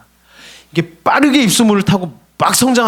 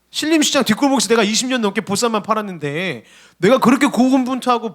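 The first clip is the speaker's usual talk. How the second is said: indignant outcry; 4 semitones higher than usual. Retold or imitated. Restaurant owner protesting new regulation, indignant outcry. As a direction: cry out like a wronged shop owner. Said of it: "이렇게 막 외쳤다는 거죠".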